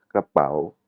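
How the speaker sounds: KRAPAO slowed, the pitch broken on "pao"; slow demonstration of "krapao" with broken intonation. Shown as a demonstration. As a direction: stretch "krapao" and bend the tone at its end. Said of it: "l'intonation elle est cassée".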